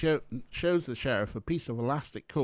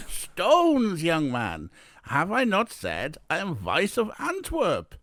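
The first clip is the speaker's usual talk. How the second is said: put-on indignant, higher and louder foreign-accented guest; Eric Weiss, heavy accent; 7 semitones higher, 6 dB louder, slower than usual. A narrator's reading. Guest scolding the young manager, heavy foreign accent. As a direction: correct him loudly in a thick foreign accent. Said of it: "Oh, a heavy accent".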